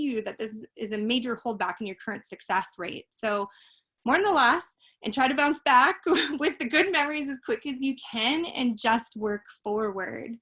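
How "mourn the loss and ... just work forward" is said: breathless and winded mid-speech; out of breath, pushing words out; running out of breath. Real, not acted. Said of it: "Oh, I'm running out of breath".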